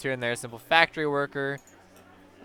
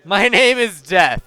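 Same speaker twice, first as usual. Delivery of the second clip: ominous Death; 5 semitones higher, 10 dB louder, slower than usual. Acted. Player announces character as Death.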